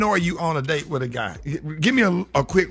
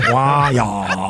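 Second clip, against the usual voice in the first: mock trendy whine; 7 semitones lower than usual. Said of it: "who started talking like that".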